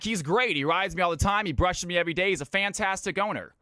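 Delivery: high, animated horse voice; talking horse. Acted. Horse praising his farmer to the ventriloquist, high upbeat voice. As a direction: answer as a happy talking horse. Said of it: "And the horse is like".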